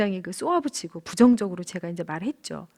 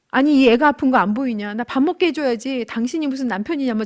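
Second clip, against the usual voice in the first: mildly heated reproach, louder at the start; angry retold scolding; 2 semitones higher, 3 dB louder than usual. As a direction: retell an angry complaint to a husband. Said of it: "엄청 화를 냈죠". (화내며 따지는 말투 재연)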